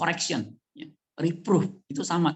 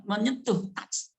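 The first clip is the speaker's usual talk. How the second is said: ordinary talk, nothing marked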